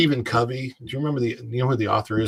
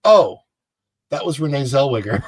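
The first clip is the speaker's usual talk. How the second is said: loud, high "Oh" then naming her; sudden realization; 4 semitones higher, 7 dB louder than usual. Retold or imitated. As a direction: replay the moment it clicks. Replays the moment of realization.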